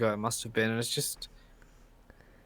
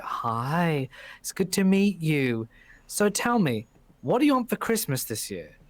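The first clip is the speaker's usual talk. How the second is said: mock-sweet, higher sing-out to a child; higher, drawn-out friendly greeting; friendly woman greeting a child; 3 semitones higher than usual. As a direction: lightly imitate a kindly grown-up asking a child. Women greet a child in story.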